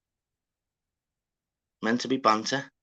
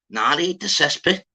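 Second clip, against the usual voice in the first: higher, louder retort, rising at the end; imitated disbelief; 8 semitones higher, 5 dB louder than usual. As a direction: throw it back like you don't believe them. Acting out the confused man's reply.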